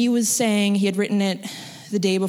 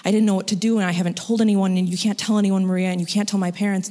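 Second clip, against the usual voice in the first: hurried, mildly panicked retelling; imitating a friend's rising panic, lightly; retold panic; faster than usual. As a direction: rush through it, stumbling a little. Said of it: "she's starting to panic".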